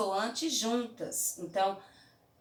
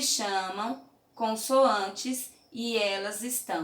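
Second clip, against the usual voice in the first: slow, stressed; slower than usual. Shown as a demonstration. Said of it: "essas duas letrinhas juntas se".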